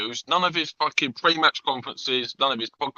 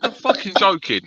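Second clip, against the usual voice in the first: laughing disbelief; 7 semitones higher than usual. Retold or imitated. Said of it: "I went".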